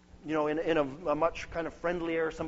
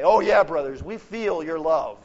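sarcastic retort; 8 dB louder than usual. Retold or imitated. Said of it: "I wanted to say".

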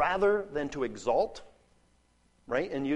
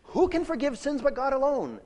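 much higher, earnest asking voice; sincere question; 11 semitones higher, 3 dB louder than usual. Shown as a demonstration. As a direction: ask as if really wanting an answer. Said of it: "they're not saying".

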